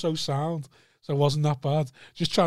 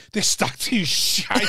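mock sulky drunk; 3 semitones higher, much slower than usual. Wild lad complaining.

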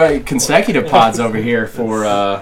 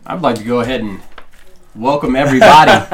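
announcer voice; 3 dB louder than usual. Acted. Podcast host intro, announcer.

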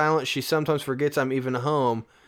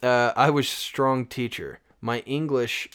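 put-on Russian accent. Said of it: "like a Russian?".

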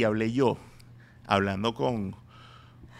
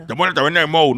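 loud character voice lacking the Mexican accent; non-Mexican accent; 4 semitones higher, 9 dB louder, faster than usual. Shown as a demonstration. Comedian showing the wrong take, non-Mexican accent. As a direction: do the cartoon line without any Mexican lilt. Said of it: "no, tiene que ser mexicano".

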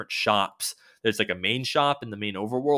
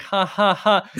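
high, loud, forced ha-ha-ha; hammed-up fake laughter, much higher; 10 semitones higher, 8 dB louder, slower than usual. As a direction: laugh like you're hiding anger. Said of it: "he's, like, laughing".

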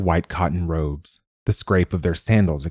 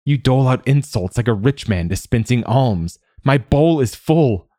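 choking with laughter; 6 semitones higher, 4 dB louder than usual. Acted. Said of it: "Quoth choked".

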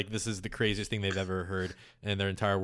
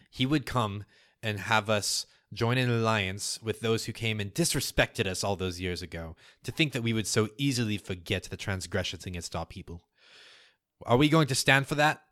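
mildly raised oratory, lifting at the end; loud voice. Acted. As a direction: address the crowd, building to a challenge. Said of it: "in a loud voice".

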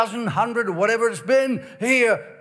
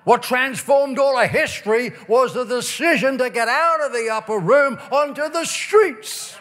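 fervent preaching; 3 semitones higher than usual. Acted. Preacher exhorts at full force.

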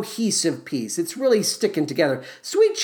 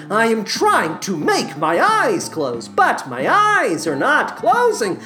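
a wired, giddy salesman losing it; stoned shop clerk; 3 semitones higher than usual. Acted. Comic ad sketch as stoned clerk.

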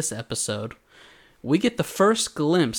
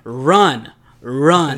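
louder urgent double yell of run; crow shouting; 8 dB louder than usual. Retold or imitated. Crow yelling at slow recruits to run.

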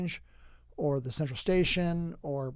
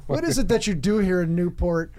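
baffled mock questioning; 3 semitones higher, 4 dB louder than usual. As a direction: play it as a puzzled out-of-towner asking around. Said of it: "And I went".

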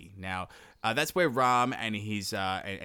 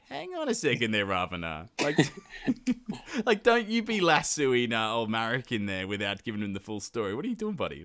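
mock incredulous objection. Listener voiced scolding Ravana.

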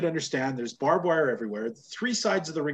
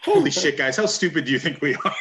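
mock outrage; 5 dB louder than usual. Host mocking the show's perfect makeup, loud incredulous outburst. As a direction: blurt it out like you've been insulted. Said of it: "And it's like".

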